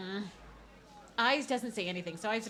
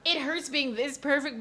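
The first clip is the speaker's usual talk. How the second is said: mock smug; 7 semitones higher, 5 dB louder, slower than usual. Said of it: "I'm that good at method acting".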